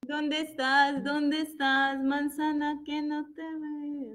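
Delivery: cantadito y lento, llamando a la manzana; buscando juguetón. Pretend. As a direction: como quien llama a un gatito escondido. (llamando a la manzana en tono juguetón y lento)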